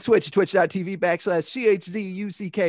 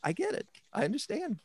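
lazy Orange Cassidy impression; 5 semitones higher, 10 dB quieter than usual. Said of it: "Orange Cassidy".

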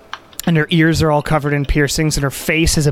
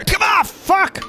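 high, slow grumbled curse; annoyed shopkeeper; slower than usual. Acted. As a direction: yell it from the back room, fed up. Shopkeeper yells from back room.

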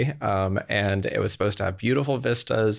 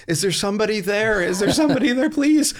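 high-pitched plea, rising and getting louder; mock desperate call into the dark, climbing higher; imitated yelling out; 12 semitones higher, 4 dB louder than usual. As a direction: call out for help, pitch soaring. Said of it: "they yell out".

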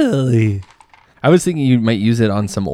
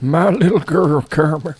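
put-on doting voice; 5 semitones higher than usual. Echoes line in put-on voice.

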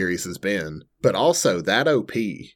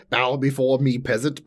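hammed-up tyrant, a bit higher; booming demon lord; 4 semitones higher than usual. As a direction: lord it over a peasant, hammed-up. Mock demon lord command.

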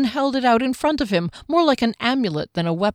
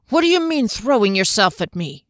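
demanding; 3 semitones higher, 3 dB louder than usual. Acted. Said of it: "he demanded".

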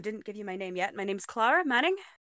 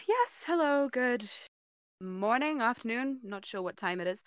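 fake smile voice. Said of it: "big fake smile on".

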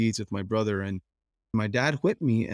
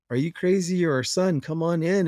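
higher-pitched, insistent imitation of Dad; retold dad's insistence; 6 semitones higher than usual. Dad urges his son into the house, imitated in a raised pitch. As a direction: lightly voice a father urging his son in. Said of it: "And he was like".

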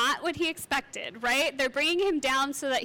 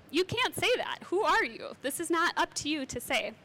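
indignant; 3 semitones higher than usual. Retold or imitated. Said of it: "a little bit indignant".

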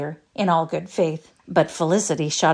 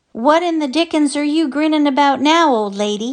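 higher, louder gruff demand; 10 semitones higher, 7 dB louder than usual. A narrator's reading. Husband with broken leg demands of his wife, cross. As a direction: bark the question at her. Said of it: "he demanded".

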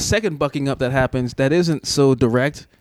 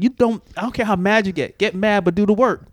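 stern dad; 7 semitones higher than usual. Retold or imitated. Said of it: "I was like".

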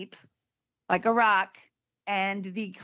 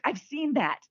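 relieved; 5 semitones higher than usual. Retold or imitated. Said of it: "And he was so relieved".

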